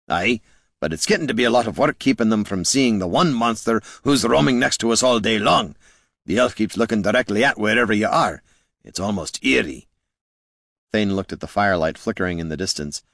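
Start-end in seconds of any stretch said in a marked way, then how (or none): 0.1-9.9 a hint of a grumbling dwarf; lightly voiced dwarf. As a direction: complain a little, as a weary guard.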